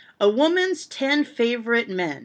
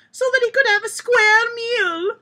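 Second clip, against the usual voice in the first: high, bright mock Irish punchline; Irish accent; 13 semitones higher, 6 dB louder than usual. Punchline of an Irish joke in a mock accent. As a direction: deliver the punchline in a stage-Irish lilt. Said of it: "doing it in an Irish accent".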